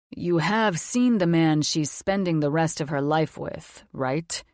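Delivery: a mature man, calm and sure of himself; authoritative confident man. Acted. Logan voiced as man.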